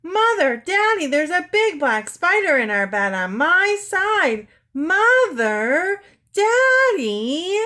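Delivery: high, loud frightened wail; panicked child crying out; screaming for parents. A narrator's reading. Anne runs to her parents, screaming high and loud. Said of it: "went screaming into her mother and father's room".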